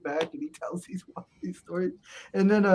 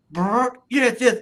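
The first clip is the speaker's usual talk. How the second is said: Iron Sheik impression; 6 semitones higher, 6 dB louder, slower than usual. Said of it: "he'd be like".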